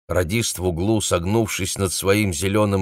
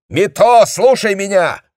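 high, loud urgent call; shouting; 13 semitones higher, 8 dB louder than usual. A narrator's reading. Captain shouts into the receiver for Mito. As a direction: demand his attention through the noise.

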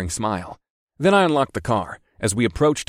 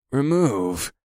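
slow drawn-out; 3 semitones higher than usual. Acted. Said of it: "in a slow, drawn-out voice".

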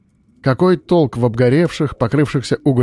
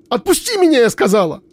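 furious scream; 11 semitones higher than usual. Acted. Miroslava screams at Frost to release her, furious scream. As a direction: break into a scream. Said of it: "сорвалась на яростный крик".

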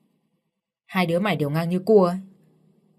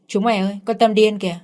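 put-on loud, taunting call to the other kids; jeering kids' shout; 2 semitones higher, 4 dB louder than usual. Village kids taunting Tâm, calling out loud. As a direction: yell it out to mock her.

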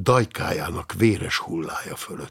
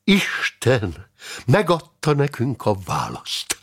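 raised, ardent declaration; eager, higher-pitched proclamation; enthusiastic; 4 semitones higher than usual. Acted. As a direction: announce it with zeal. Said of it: "folytatta Richardus barát lelkesen".

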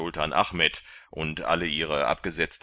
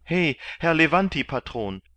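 higher, louder hail; calling out; 10 semitones higher, 8 dB louder than usual. A narrator's reading. Kandid calls out to the galley master, loud. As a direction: call across the deck to get his attention.

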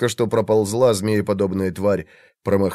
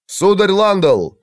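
slow, loud, higher call into the dark; 7 semitones higher, 4 dB louder, slower than usual. A narrator's reading. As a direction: shout across to Landal. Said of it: "крикнул темнокожий маг". (громкий оклик в темноте)

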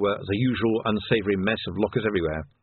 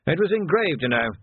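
higher-pitched, gently mournful; 8 semitones higher than usual. A narrator's reading. Captain laments his stolen inkstand, mournfully. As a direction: lament it like a put-upon old captain. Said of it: "said Tilden mournfully".

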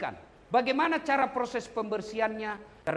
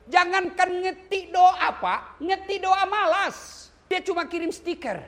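slow scorn; 11 semitones higher, 5 dB louder, slower than usual. Acted. Preacher mocks lazy mourners.

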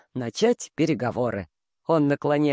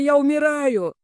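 «я умираю» wailed high and loud, panicked; 10 semitones higher, 5 dB louder than usual. A narrator's reading. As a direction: cry «я умираю» like a dying coward. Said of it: "орёт". («я умираю» — в панике, высоко)

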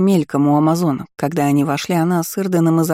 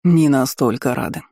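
dry grandfather; 4 semitones lower than usual. Acted. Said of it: "хмыкнул дед".

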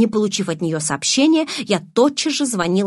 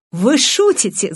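laughing; 3 semitones higher, 4 dB louder, slower than usual. A narrator's reading. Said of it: "захохотал он".

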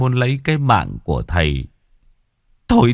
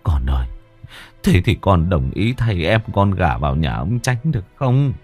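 tearful father pleading; 2 semitones lower than usual. Acted. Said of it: "dập đầu van xin".

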